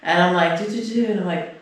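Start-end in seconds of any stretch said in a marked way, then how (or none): 0.6-1.0 mimicked alarm beeps. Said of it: "I hear this fucking annoying-ass noise".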